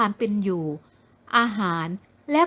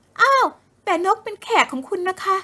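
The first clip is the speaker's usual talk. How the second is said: put-on indignant young woman; 8 semitones higher than usual.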